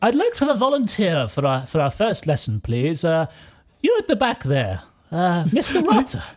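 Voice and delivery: lightly voiced teacher addressing the class; Professor McMacintosh. Professor asking the class for a volunteer, lightly acted teacher. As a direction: call on a pupil as a brisk authority figure. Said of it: "Professor McMacintosh says".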